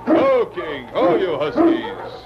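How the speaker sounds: high, drawn-out call urging the huskies on; calling to dogs. Acted. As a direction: shout the team forward over the wind, slowly. Mountie calling dogs at cabin.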